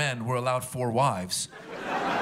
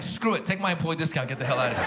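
fed-up clerk. Retold or imitated. Clerk giving up after half an hour, fed up. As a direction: throw up your hands. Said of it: "the guy's like".

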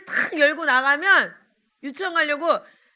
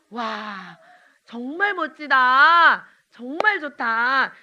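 slow amazed praise; 5 dB louder, much slower than usual. Pretend. Teacher showing children how to praise, slowly amazed. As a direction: savor each word, slowly amazed.

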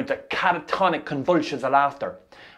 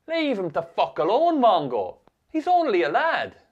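retold shouting; 7 semitones higher than usual. Fifth years urge the bully to stop, mock shouting. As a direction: call out like an onlooker, held back in volume. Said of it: "fifth years shouting".

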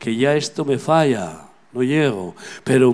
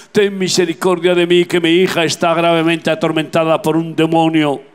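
high, raised pleading voice; insistent pleading; 5 semitones higher, 4 dB louder than usual. Acted. Preacher voices a mother begging Jesus for her daughter, insistent plea. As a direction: press the plea on a sustained high note. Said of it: "Pero ella insistió".

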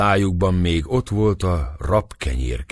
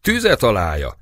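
crowd shout; 5 semitones higher, 4 dB louder than usual. A narrator's reading. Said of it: "kiáltották valamennyien".

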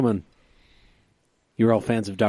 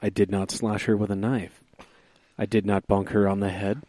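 radio announcer daddy voice. Acted. Reading his Seuss-style O J poem to his podcast friends, a hint of a radio announcer. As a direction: read the rhyme like a hint of a smooth radio host. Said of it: "in my radio announcer daddy voice".

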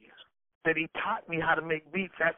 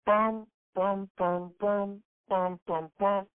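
beat vocalizing; 3 semitones higher, much slower than usual. Shown as a demonstration. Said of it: "I started off with Riddler on the Roof".

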